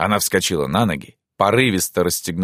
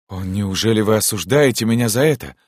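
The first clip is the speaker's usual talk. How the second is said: mildly apologetic question, slightly higher; soft and guilty; 4 semitones higher than usual. Acted. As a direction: ask with a touch of guilt. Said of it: "мягко и виновато спросил принц". (мягко и виновато)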